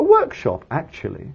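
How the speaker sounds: short pause set before the word actually. Teaching how to phrase an additional thought to sound native, pause before actually. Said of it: "we go pause, extra phrase, pause, because it's an additional thought".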